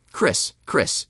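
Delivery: wife calling the husband's name across the yard; a caller's voice, name drawn out twice. Retold or imitated. Wife running from her car after her husband, calling his name. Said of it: "she shouted".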